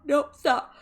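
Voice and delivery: high loud scold of the yawning pet; playful scolding. Real, not acted. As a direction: squeal at the pet to stop yawning.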